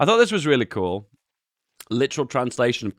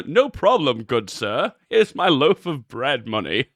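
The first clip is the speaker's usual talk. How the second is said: mock shopkeeper; 2 semitones higher, slower than usual. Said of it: "The Mummy?".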